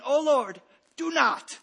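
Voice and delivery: put-on loud, high, panicked child begging; frightened pleading. Frightened young boy begging God in the dark, loud and high.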